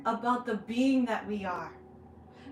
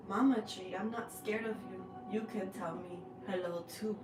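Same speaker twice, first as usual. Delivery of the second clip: gentle coaxing; 5 dB quieter than usual. Retold or imitated. Speaking to mama tree.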